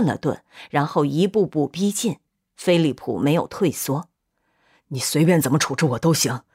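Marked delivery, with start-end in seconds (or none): 4.9-6.4 low, grave breaking of news; grave submission. A narrator's reading. Philip faces the advancing father, low and grave. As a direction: give yourself up, then break it gravely.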